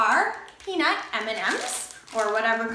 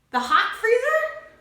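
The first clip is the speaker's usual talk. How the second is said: puzzled; 10 semitones higher, 4 dB louder than usual. Pretend. Mock confused question.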